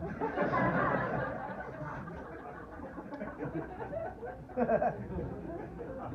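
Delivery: long high laugh; laughter. Real, not acted. Speaker to audience after his hospital threat joke, laughing. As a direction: laugh at length, high and light.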